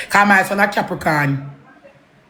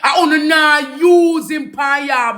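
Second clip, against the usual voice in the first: shouting; 5 semitones higher, slower than usual. Real, not acted. Heated rant repeated louder.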